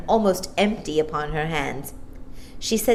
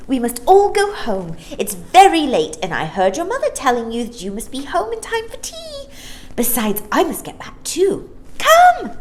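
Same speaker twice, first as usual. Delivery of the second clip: Maya; 9 semitones higher, 6 dB louder than usual. Acted. Maya's voice in the story.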